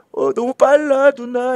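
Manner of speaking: high, drawn-out mock plea; overwhelmed brain. Brain begging big-sister eyes to slow down, overwhelmed. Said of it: "이렇게 하는 거야".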